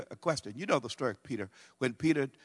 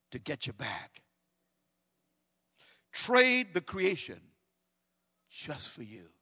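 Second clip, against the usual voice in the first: tender scripture reading; 2 semitones higher than usual. Acted. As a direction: speak it gently, like a promise.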